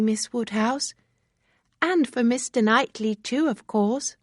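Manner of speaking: excited chatter; Harriet, eager and girlish. Acted. Harriet's long confession.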